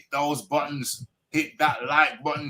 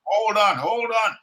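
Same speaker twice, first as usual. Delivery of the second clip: raised pitch, holding the floor; insistent interjection; 6 semitones higher than usual. Real, not acted. Host stopping a caller who keeps interrupting, insistent. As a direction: cut in high and insistent.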